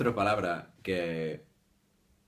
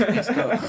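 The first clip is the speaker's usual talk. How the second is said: rasping H; 12 semitones higher, 8 dB louder than usual. Shown as a demonstration. Mocking spitting H.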